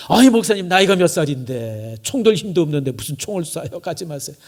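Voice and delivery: mildly hammed-up worried dissuasion; dissuading plea. Acted congregant dissuading the pastor.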